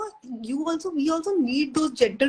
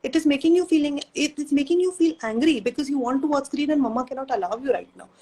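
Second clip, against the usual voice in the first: put-on soothing toddler. Shown as a demonstration. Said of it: "You just repeat what your toddler is saying".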